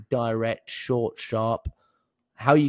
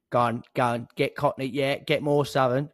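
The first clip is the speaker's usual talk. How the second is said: put-on cockney; 2 semitones higher than usual. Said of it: "I'm a cockney".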